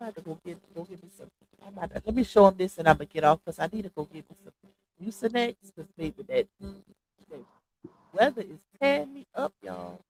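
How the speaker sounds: stuffy nose from a cold; congested. Real, not acted. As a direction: talk through a blocked nose. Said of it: "That's why I'm sounding congested".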